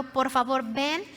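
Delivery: mildly acted plea, stretched on ven y sana; begging. Father humbly begging Jesus for his dying son, mild plea. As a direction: plead humbly, in a retelling. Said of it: "le estaba rogando".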